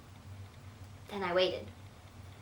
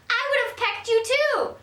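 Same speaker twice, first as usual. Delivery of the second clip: higher, slow playful tease; teasing grandma; 14 semitones higher, 4 dB louder than usual. Acted. A touch of grandma teasing her granddaughter about the potato.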